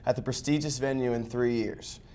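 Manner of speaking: polished sports anchor intro; news anchor read. Acted. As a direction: open the show like a TV anchor. Show opening by host.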